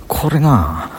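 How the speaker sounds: これな with a Banshu drawn-out な; Banshu dialect. Shown as a demonstration. Vlogger sampling his local speech, Banshu dialect. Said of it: "これ、播州弁やねんな".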